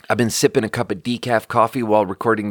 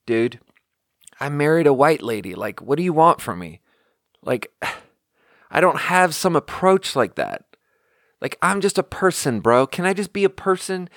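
exasperated defense; 5 semitones higher than usual. Retold or imitated. Defending himself to aunt.

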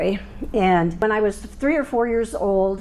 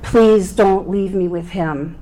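slower, louder pleading; slower than usual. Retold or imitated. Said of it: "I had begged them".

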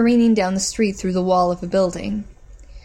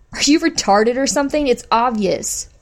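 contemptuous sneer; 4 semitones higher, 3 dB louder than usual. Acted. Bitch sneers at woman.

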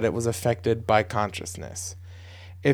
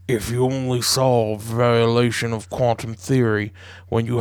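Civil War soldier; 3 semitones lower than usual. Acted. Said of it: "I appreciate you reading li-, like a Civil War soldier".

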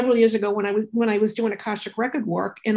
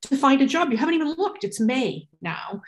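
exasperated, higher-pitched nagging at a son; retold fed-up motherly insistence; annoyed mom; 5 semitones higher than usual. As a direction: press the point like an annoyed parent. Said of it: "I was getting really annoyed".

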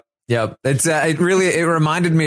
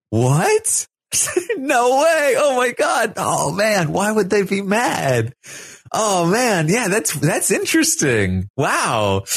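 higher, gleeful mock surprise; beaming delight; 6 semitones higher, slower than usual. Kyle delighted by Daniel's rumour, high gleeful surprise. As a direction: gush like it's the best news. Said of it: "Kyle is, like, beaming".

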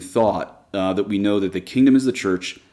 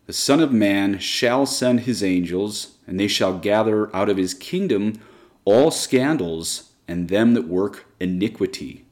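scripture reading. Acted. Reads Matthew aloud from Douay-Rheims.

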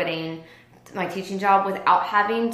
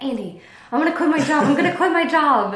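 half-laughing, higher and quick, gonna quit my job; laughing threat; 7 semitones higher, 5 dB louder than usual. Retold or imitated. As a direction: toss it off with a laugh, teasing. Retelling daily laughing threat to husband.

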